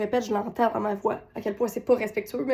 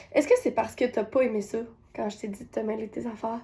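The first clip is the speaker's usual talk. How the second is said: calm; 4 dB quieter than usual. Retold or imitated. Mother calmly questions her son after breathing, gentle calm. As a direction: ask calmly, no reproach. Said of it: "je peux répondre dans le calme".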